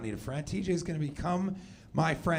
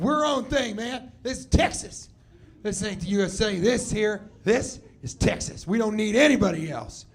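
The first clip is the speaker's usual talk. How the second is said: proud Texan, voice pitched up a little; Texan accent; 3 semitones higher than usual. Acted. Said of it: "Good accent".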